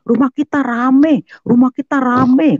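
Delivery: put-on high, loud child's alarm call; anak berteriak-teriak. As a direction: yell the news to Mama like a child. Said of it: "anak saya teriak-teriak". (teriakan anak memberi kabar)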